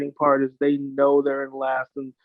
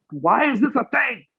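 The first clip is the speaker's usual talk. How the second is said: much higher, crying whine of outrage; whiny mock cry; 8 semitones higher than usual. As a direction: wail it like a betrayed fan. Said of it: "I'm just like".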